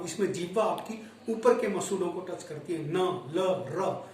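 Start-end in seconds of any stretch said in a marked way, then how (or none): 2.8-4.1 न न ल र said one by one; alveolar sounds. Shown as a demonstration. Teacher demonstrating gum-ridge sounds to students, clearly articulated. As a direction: sound out न, ल, र slowly. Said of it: "बोल के देखिए आप इसको".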